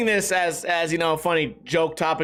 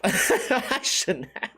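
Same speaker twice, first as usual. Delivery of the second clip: slow, laughing through the words; 3 semitones higher, much slower than usual. Real, not acted. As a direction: chuckle while admitting it. Repeat laughing at himself.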